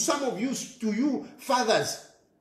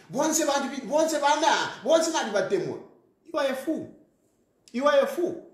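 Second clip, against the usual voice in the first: mocking stage speech; 3 semitones higher than usual. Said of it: "go and stand on stage".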